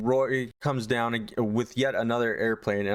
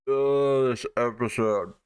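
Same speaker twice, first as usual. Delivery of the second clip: exasperated groan; slower than usual. Real, not acted. Reviewer fed up with this episode, exasperated. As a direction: groan at how bad it is.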